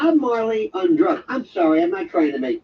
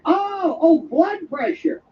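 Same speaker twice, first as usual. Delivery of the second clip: drawn-out, higher "Oh, blood pressure"; exaggerated realization; 7 semitones higher, much slower than usual. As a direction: stretch it out as the penny drops. Exaggerated realization of the misheard word.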